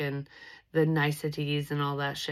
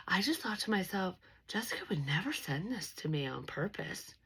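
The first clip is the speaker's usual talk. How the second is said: soft whispered imitation of grandma; whispered quote; 3 semitones higher, 5 dB quieter than usual. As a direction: whisper her words, higher at first.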